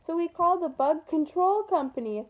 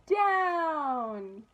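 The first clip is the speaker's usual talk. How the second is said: yelled command; 5 semitones higher, much slower than usual. A narrator's reading. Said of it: "yelled Carlos".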